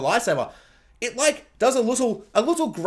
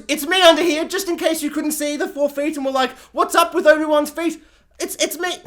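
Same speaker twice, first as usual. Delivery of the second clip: higher-pitched mocking princess voice; Leia imitation; 6 semitones higher than usual. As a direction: playfully impersonate Leia announcing herself. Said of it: "opens the cloak and goes".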